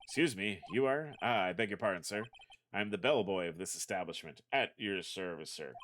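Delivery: bellboy voice. Acted. A bellboy greeting the lawyer, lightly voiced. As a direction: play the stiff, courteous bellboy.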